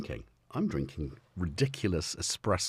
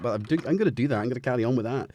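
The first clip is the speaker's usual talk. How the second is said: louder, playful Scottish lilt; Scottish accent; 4 semitones higher, 4 dB louder, much faster than usual. Pretend. Streamer insisting on carrying on with it, Scottish accent. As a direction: keep up the put-on Scottish accent, a bit higher. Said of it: "I've gone Scottish".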